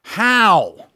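slow, drawn-out disbelief; lightly voiced sheriff, amazed and slow; a hint of a stunned lawman; sheriff's slow wonder. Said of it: "and he said".

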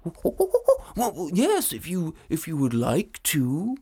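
dragon voice. Acted. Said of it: "said the dragon".

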